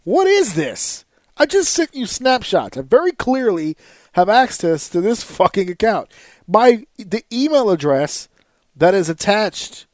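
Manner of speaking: blowing up at the rep; shouting at the customer service rep; lost his temper. Retold or imitated. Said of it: "I lost my shit".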